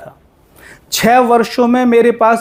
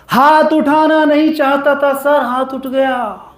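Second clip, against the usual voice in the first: mock regretful excuse; 3 semitones higher than usual. Person confessing to a counsellor that the hand slipped, mock regretful. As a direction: act out a helpless excuse, letting the end sink away.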